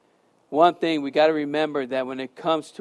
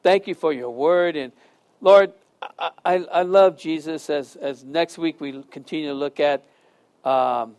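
prayer. Acted. Closing prayer.

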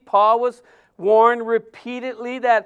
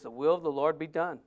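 softer and lower, "will" gently weighted; quiet, lowered rereading; hushed scripture quote; 5 semitones lower, 8 dB quieter than usual. Shown as a demonstration. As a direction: let The will of the Lord be done drop to a hush. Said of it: "Verse fourteen says".

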